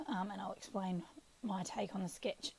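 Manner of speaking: croaky, throat needs clearing. Real, not acted. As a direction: speak through a croaky voice. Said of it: "croaky voice".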